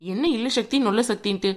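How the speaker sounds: sarcastic parroting of his words; mocking echo. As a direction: throw his words back at him. Bride mockingly echoes groom's words.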